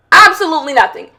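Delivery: "Absolutely nothing" said briskly in one run; quick emphatic dismissal. Real, not acted. Podcaster on women's relationships, quick emphatic dismissal. First take, then repeated for emphasis.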